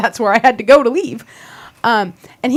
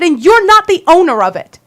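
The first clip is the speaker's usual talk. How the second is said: louder, higher, firm; indignant retort; 3 semitones higher, 4 dB louder than usual. Retold or imitated. To Scott claiming private property, louder indignant retort. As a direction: push back hard on his authority.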